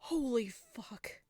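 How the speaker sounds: slow, breathless whisper; shocked whisper. Real, not acted. Player stunned by the news report, whispering slowly. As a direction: whisper in disbelief.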